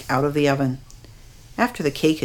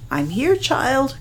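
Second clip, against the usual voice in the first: soft grandma voice; 8 semitones higher, slower than usual. A narrator's reading. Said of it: "Grandma said softly".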